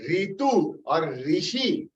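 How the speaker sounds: ऋतु और ऋषि said slowly with ऋ as ri, the common wrong way; wrong pronunciation. Shown as a demonstration. Teacher shows students the wrong way to say ऋतु and ऋषि, slowly. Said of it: "is a wrong pronunciation in Sanskrit".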